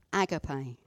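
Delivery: agape stressed at the front, "AG-uh-pay"; own agape pronunciation. Shown as a demonstration. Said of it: "is how I say it".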